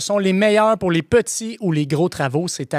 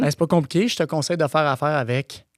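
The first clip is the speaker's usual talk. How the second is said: glitching robot voice cutting off; faster than usual. Acted. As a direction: play a glitching robot that freezes mid-line. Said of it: "La machine bug".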